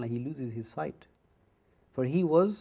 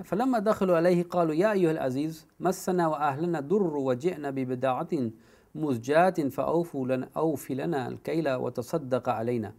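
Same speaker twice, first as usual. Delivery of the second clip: brisk chanted Arabic verse; rapid Quranic chant; Quran recitation; much faster than usual. Acted. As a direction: recite the ayah in flowing tajweed.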